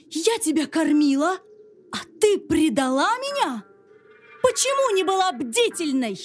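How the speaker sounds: high, furious queen scolding a maid; a betrayed queen yelling in a high voice; angry queen shouting. Acted. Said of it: "закричала на девушку".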